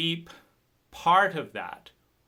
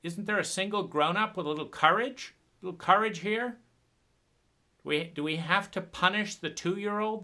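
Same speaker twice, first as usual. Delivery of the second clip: angry plea. Retold or imitated. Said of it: "There's an anger".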